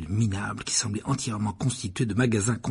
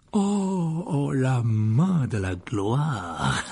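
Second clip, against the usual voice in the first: exclamation ravie; 3 semitones higher, much slower than usual. Acted. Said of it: "s'exclama monsieur Barjot".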